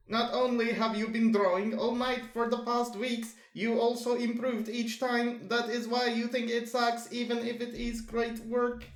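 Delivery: firm encouraging companion. Acted. Companion telling the artist his work is great, firm even delivery. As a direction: lecture him on an unwavering high note.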